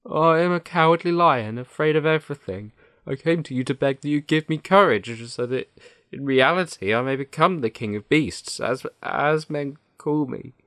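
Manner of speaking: high-pitched, timid lion voice; cowardly Lion. Acted. The Lion begs Oz for courage, timidly pleading. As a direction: plead up high like a frightened beast.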